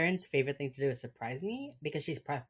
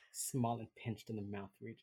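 softer, lower repeat; muttered echo; 4 semitones lower, 7 dB quieter than usual. Retold or imitated. Repeating co-host's odd phrase, quiet echo. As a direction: echo it under your breath.

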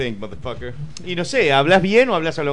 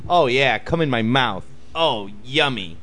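mock porn voice; much slower than usual. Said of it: "saqué todo mi inglés de las películas porno".

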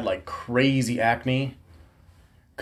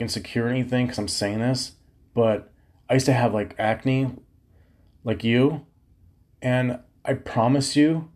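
softer, careful reassurance; gentle advice; 2 semitones lower, 3 dB quieter than usual. Retold or imitated. Teen gently advising a classmate about acne, soft and kind. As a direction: ease into it kindly.

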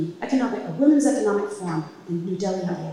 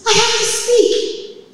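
halting impaired speech; 14 semitones higher, 7 dB louder, much slower than usual. Retold or imitated. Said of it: "speaking and talking to him like that".

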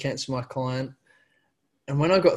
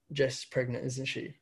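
soft, knowing hush from mum; 8 dB quieter than usual. Retold or imitated. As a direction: say it like you already knew. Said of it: "She was like".

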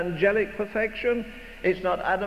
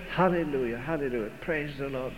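hushed, lower and softer hallelujahs; stage whisper; 6 semitones lower, 6 dB quieter than usual. Retold or imitated. Praising under his breath during the sermon, hushed. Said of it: "I would say in the stage whisper".

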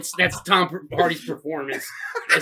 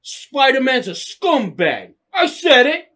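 defiant Eddie Brock; 5 semitones higher, slower than usual. Retold or imitated. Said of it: "how he should be".

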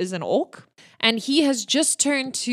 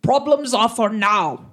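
gruff orc priest; 3 dB louder than usual. Acted.

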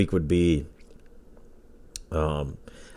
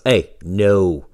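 scolding the dog; 4 dB louder, much slower than usual. Real, not acted. Scolding the dog mid-recording.

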